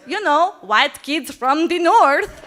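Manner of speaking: mock-knowing friend; teasing friend. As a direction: tease her with a knowing drawl. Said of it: "He goes".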